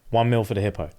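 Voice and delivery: lightly voiced low bidder; voice in the back. Retelling a bid from the back of the room, low and understated. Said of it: "Hear a voice in the back".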